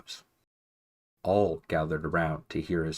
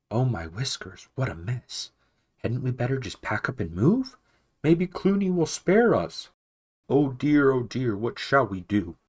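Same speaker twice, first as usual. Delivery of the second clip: rising higher and louder into shrill panic; fretful mouse losing his nerve, climbing higher; panicky mouse; 5 semitones higher, 5 dB louder than usual. A narrator's reading. Frightened abbey mouse begs to flee, higher and louder.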